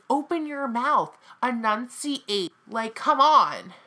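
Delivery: drawn-out exasperated plea; slow, fed-up imagined scolding. Retold or imitated. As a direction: stretch each word out in irritation. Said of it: "I'd be like".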